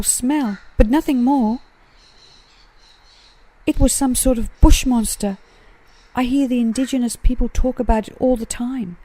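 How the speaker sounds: a small creature anxious after the scare; tiny possum voice. Acted. Blossom answering from the tree, high little possum voice.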